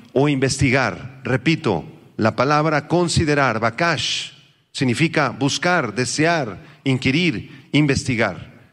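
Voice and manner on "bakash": bakash with its last syllable stressed; stress on second A. Shown as a demonstration. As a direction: say bakash as ba-KASH. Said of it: "acento en la segunda A".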